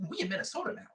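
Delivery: squeaky high quote; high-pitched imitation. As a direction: mimic a thin high voice. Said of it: "his voice wasn't, like, as masked".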